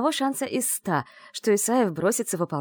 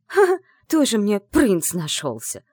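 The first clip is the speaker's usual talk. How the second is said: indignant outburst; 3 semitones higher, 6 dB louder, slower than usual. Acted. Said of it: "Взорвалась я от негодования".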